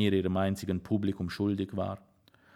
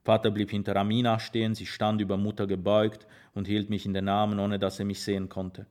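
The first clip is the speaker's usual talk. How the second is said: ordinary delivery, nothing marked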